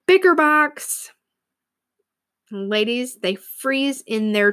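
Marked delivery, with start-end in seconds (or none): 0.1-1.1 slow, loud call of "Bicker Box"; shouting. Retold or imitated. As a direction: call it out firmly like a mom. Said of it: "I will instantly shout".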